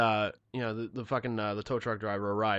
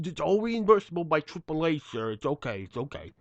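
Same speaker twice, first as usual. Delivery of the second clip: calming reassurance; 3 semitones higher than usual. Retold or imitated. Tow guy calming down an angry customer, placating. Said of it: "he's trying to calm me down".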